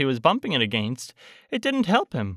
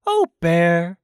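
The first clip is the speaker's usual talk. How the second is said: mildly affectionate, pitched up; lightly voiced tenderness, a little higher; fond Christopher Robin; 4 semitones higher, 3 dB louder than usual. A narrator's reading. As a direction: say it fondly to a dear friend. Christopher Robin fondly addresses Pooh.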